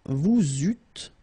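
"vous eûtes" as vou-zût, no final S; liaison, silent S. Shown as a demonstration. Teacher modelling a verb form, liaison. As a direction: link "vous eûtes" with z and drop the last S. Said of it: "same thing here".

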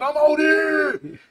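drawn-out high call of the name. Retold or imitated. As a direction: call across the mess hall, slow and high. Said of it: "chamou o coordenador". (chamado alto e arrastado)

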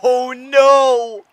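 high loud cry of dismay; shrieking dismay. Real, not acted. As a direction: wail it as the play fails. Bad play, dismay.

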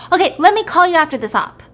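acted-out irritation, hurrying the caller off; brisk mock exasperation; annoyed. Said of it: "he gets annoyed".

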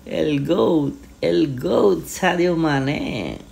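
high, stretched goal cry; goal celebration. Real, not acted. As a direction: cheer the goal, drawn out.

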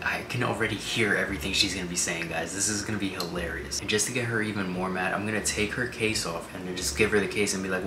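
hushed whisper to camera. Real, not acted. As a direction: whisper so she won't wake.

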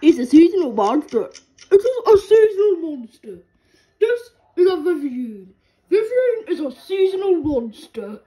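mock wildlife voice-over breaking into laughter; David Attenborough impression. Echoing the quiz voice in a laughing mock narrator voice. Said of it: "my David Attenborough impression".

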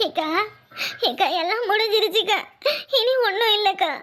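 tearful, voice catching between words; sobbing out that it's all over; crying. Acted. Meenakshi tearfully telling her sister-in-law all is lost, crying. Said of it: "ஏன் இப்படி அழுவுற?".

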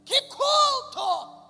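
high, loud, laughing cry of delight; joyful shout. Retold or imitated. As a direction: shout it out in joy. Gritos de alegria relembrando o culto. (grito alegre e alto)

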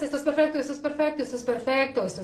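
soft repeated affirmation, "perfecto" stressed each time; calm, meditative repetition; mantra repetition. Shown as a demonstration. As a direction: chant it quietly like a mantra. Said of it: "el primer pasito para elegir estados de paz es".

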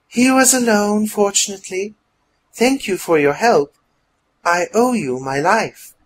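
high-pitched voice of a shaken woman; shaken but grateful. A narrator's reading. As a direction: thank your rescuer, still shaken by the ordeal. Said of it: "still shaking from the ordeal".

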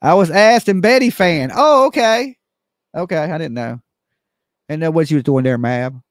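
a hint of Betty, bantering with Mab; lightly voiced regular teasing at the coffee counter; Betty impersonation. Betty needling Mab over coffee, lightly voiced. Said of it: "my best Betty impersonation".

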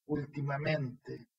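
measured poem reading with pauses between phrases; poetry recital. Acted. Poet reads own poem to an online recital, measured declamation. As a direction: recite it line by line, lingering on key words.

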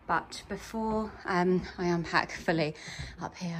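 hushed, soft late-night voice; whispering. Real, not acted. Quiet arrival at night Airbnb.

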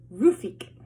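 put-on a loud, sudden baby cry of agreement; Sonny chimes in loudly with baby talk; loud baby exclamation. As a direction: blurt it like an eager toddler.

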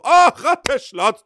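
high, slow, stretched-out squeal of delight; excited squeal. Real, not acted. Streamer squeals at the chat's new emote, high and stretched.

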